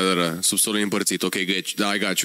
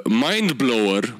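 drawn-out name; 4 semitones lower, much slower than usual. Pretend. Savouring brand name.

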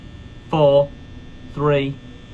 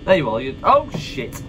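scared horror game streamer. Real, not acted.

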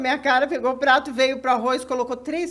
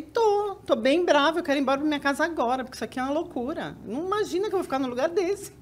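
annoyed; 3 semitones higher than usual. Retold or imitated. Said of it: "E você tá brava?".

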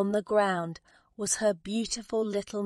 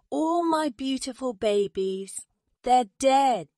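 high lament, swelling louder at the end; crying out; 6 semitones higher, 4 dB louder than usual. A narrator's reading. Mother bird mourning her chicks, high anguished cry. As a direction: wail it in a storybook voice, punching the end. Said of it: "cried the mother bird".

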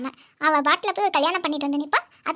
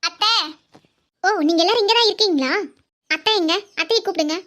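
calling out angrily for aunt; raised, indignant voice demanding the aunt; angry; 4 dB louder than usual. Acted. Angrily demanding that aunt be called out, angry. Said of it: "எதுக்கு இவ்ளோ கோவம்".

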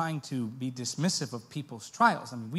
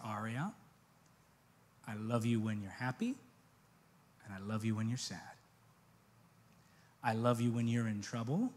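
a parent soothing gently; tender, soft reassurance; 6 semitones lower, 9 dB quieter than usual. Retold or imitated. Father to daughter Aria, softly and tenderly.

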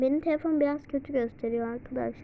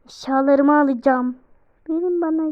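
loud; 8 dB louder than usual. Real, not acted. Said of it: "Ondan bağırıyorum ya".

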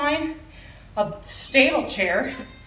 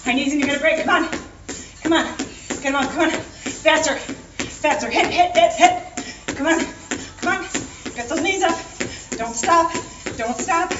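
coaching shout; 3 semitones higher, 3 dB louder than usual. Real, not acted. Pushing class through final sprint.

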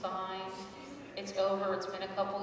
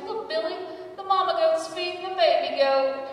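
much higher, louder sing-song teaching tone; sweet mom voice; 9 semitones higher, 7 dB louder than usual. Retold or imitated. Mom showing Billy the goats, in a sugary sing-song. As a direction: coo it at a five-year-old. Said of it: "She's like".

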